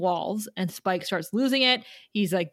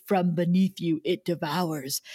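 ominous prophecy; 4 semitones lower than usual. Retold or imitated. Dying girl warning Buffy from the screen, lightly ominous. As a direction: intone it like a doomed seer. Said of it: "turns to the camera and says".

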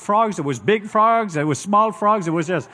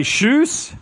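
1 playful high call; 8 semitones higher than usual. Shown as a demonstration.

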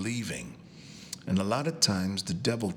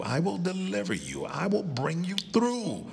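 voice of God; 8 semitones higher than usual. Acted. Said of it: "He said".

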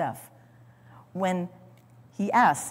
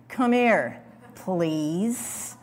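exasperated parent; much slower than usual. Retold or imitated. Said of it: "you've said it as a parent".

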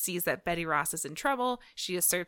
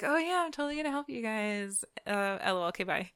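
quick, higher fake-helpful voice, then dropping off; mock-eager promise; 3 semitones higher, faster than usual. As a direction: imitate a breezy trickster pretending to help. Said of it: "She-Hulk tricks".

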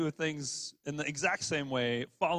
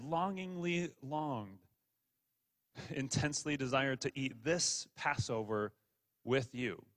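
tender repetition; 3 dB quieter than usual. Acted. Repeats the phrase slowly, softly.

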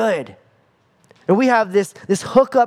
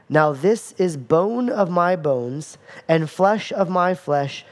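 slow, even reading of the verse; unhurried Bible reading; slow scripture read; slower than usual. Shown as a demonstration. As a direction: read it out slowly, no word punched. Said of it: "But notice it says".

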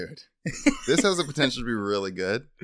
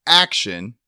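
director's call; 7 dB louder than usual. Shown as a demonstration. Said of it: "the and scene or action".

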